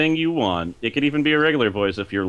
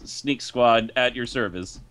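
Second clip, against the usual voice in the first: hacker voice; slower than usual. Retold or imitated. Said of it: "he says".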